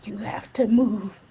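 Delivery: slow, then a loud push on now; mock urgent demand. Texting mom at intermission, urgent demand. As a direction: order it, hitting now hard. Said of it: "and I was like".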